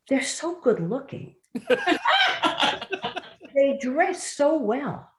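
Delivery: high, laughing through the punchline. Real, not acted. Telling the commander's joke, laughing. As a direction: giggle through the words.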